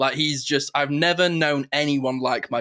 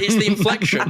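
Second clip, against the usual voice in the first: mock Trump inflection; 7 semitones higher, 4 dB louder than usual. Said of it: "I was like".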